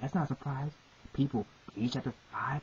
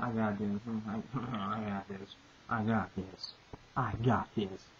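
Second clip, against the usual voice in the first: low, soft, half-laughing boast; mock cocky villain; 5 semitones lower, 3 dB quieter, slower than usual. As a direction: brush off the hero with lazy confidence. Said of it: "He told his right hand man, like".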